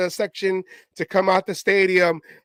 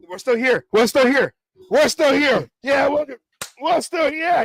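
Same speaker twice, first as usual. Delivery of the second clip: higher-pitched mock crowd response; imitated fan call; 6 semitones higher than usual. Acting out fans calling back.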